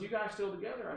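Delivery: high imitation of her accent; Barbara Delano. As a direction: ask as the caller, in her accent. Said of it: "I have to use her accent".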